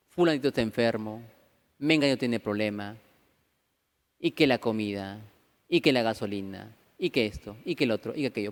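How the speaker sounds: low, droning mock list of woes; quejas. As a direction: imitate a weary litany of complaints. Voicing relatives' endless list of problems. (retahíla de quejas en tono bajo)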